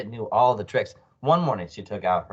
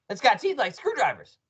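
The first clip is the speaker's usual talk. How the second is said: teasing alarm; 12 semitones higher than usual. A narrator's reading. Mr Twit scares his wife.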